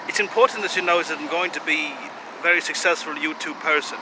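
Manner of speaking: mock German accent, earnest self-promotion; wobbly, hammed-up German accent. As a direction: put on a slightly Eastern European German accent. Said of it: "I'm having a little trouble with this accent".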